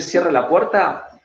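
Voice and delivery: slow, stern order to close the door; firm, slow demand. Shown as a demonstration. Coach demos it with fists clenched, stern and slow. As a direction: plant your feet and command it slowly. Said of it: "pero parate fuerte, cerrá los puños".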